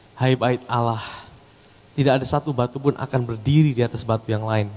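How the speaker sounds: ordinary delivery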